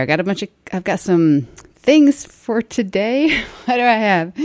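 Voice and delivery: breathless, gasping between words; out of breath. Real, not acted. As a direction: talk while still winded. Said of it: "First, I gotta catch my breath".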